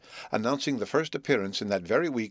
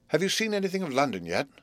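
Herbert's voice; 6 semitones higher than usual. A narrator's reading. Herbert asks Joe.

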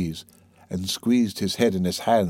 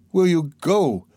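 high-pitched, insistent demand; urgent pleading; 6 semitones higher, 3 dB louder, slower than usual. A narrator's reading. Sonia snatching his hands, urgently pleading. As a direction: press the question with fervour. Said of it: "she asked him, trembling all over".

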